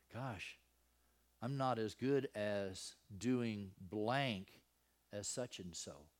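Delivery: soft, slow, discouraged musing; negative self-talk. Acted. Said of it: "you get this negative self-talk".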